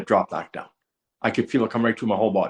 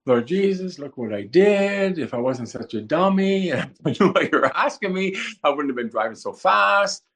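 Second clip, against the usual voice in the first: mildly upset plea to God, pitched up; 3 semitones higher than usual. Retold or imitated. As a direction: lament it to the Lord in self-blame. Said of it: "Well, now I'm upset".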